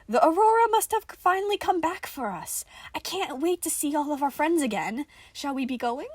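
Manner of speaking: high, loud, giddy chatter; eager toy voice. Acted. Nicola eagerly invites everyone to leave, high and loud. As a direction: bubble over with delight.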